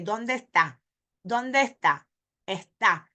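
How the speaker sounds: "está" said "ehta", S turned to an H; Puerto Rican aspirated S. Shown as a demonstration. Teacher imitates Puerto Rican speakers dropping the S in "está". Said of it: "Puerto Ricans and Spanish speakers say".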